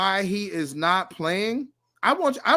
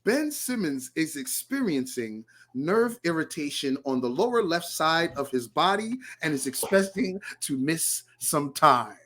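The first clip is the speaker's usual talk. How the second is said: reporter voice; 4 dB quieter than usual. Shown as a demonstration. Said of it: "I'm gonna use your reporter voice".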